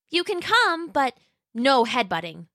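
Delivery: put-on high, sweet little dinosaur girl voice; Roxy the young T-Rex. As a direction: play a polite, eager young T-Rex. Roxy answers.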